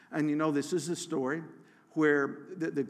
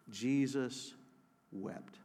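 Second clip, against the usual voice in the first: hushed reverence; 3 semitones lower, 5 dB quieter, much slower than usual. Acted. Shortest verse read reverently.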